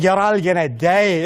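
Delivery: put-on slow Scottish accent; repeating the Scottish death warning to friends. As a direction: quote the Scottish sheikh deadpan. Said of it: "I was like".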